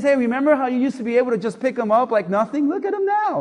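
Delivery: teasing. Retold or imitated. Teasing wife about the dog.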